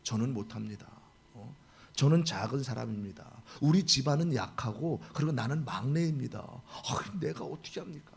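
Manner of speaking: mild mock fearful plea; fearful Gideon. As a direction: shrink back like a frightened man. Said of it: "기드온이 두려워하는 거예요".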